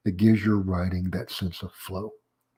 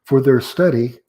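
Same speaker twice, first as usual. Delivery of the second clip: "For their study," raised and loud, then a short stop; half-second pause; 4 semitones higher, 7 dB louder than usual. Shown as a demonstration. Lecturer demonstrating the comma, half-second pause after "study". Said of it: "there's my half second pa-, pause".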